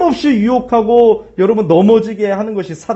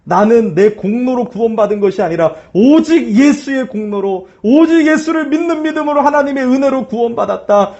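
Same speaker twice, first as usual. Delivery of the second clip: bold declaration; 2 semitones higher than usual. Shown as a demonstration. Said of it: "선포하면서".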